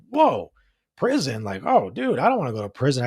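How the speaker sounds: put-on frightened child's whoa, pitched high; a seven-year-old suddenly terrified of prison; scared kid. Young boy, just threatened by a fireman, panicking in a high voice. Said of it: "I started crying".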